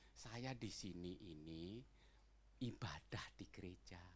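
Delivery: slow, low, hushed delivery; careful self-introduction. Retold or imitated. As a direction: explain softly and carefully to a stranger. Retold careful introduction to youth. (memperkenalkan diri pelan dan rendah)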